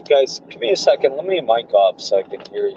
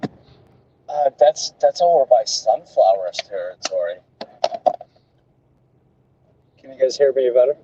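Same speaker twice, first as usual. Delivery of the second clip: thin, tinny mic sound; like a cheap phone mic; tinny audio. Real, not acted. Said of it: "your audio is really tinny today".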